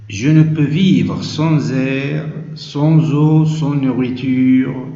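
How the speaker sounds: measured, declaimed poem reading; poem recitation. Shown as a demonstration. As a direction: recite it line by line, each opening lifted and settling at the end. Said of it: "je vais lire le poème".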